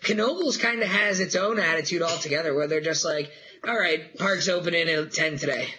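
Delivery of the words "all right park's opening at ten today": lazy shrug. Retold or imitated. Lazy park staff pushing opening back.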